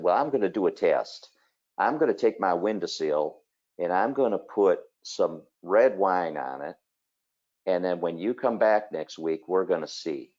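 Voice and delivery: lightly imitated Southern lady's accent. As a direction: quote her with a hint of a Southern lilt. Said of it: "in her Southern accent".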